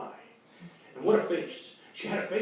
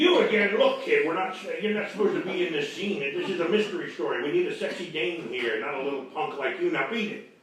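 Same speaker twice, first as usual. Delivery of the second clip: louder, exasperated tough guy; annoyed outburst; 4 dB louder than usual. Acted. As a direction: shoo the kid out, fed up. Detective scolds the kid.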